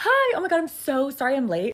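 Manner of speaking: high flustered voice. Giving confidence tips, showing how not to walk into a presentation, higher-pitched voice. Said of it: "lower the tone of your voice".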